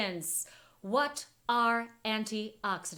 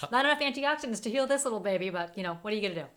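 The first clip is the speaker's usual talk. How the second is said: puppet voice; 4 dB louder, much faster than usual. Pretend. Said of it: "a good puppet voice there".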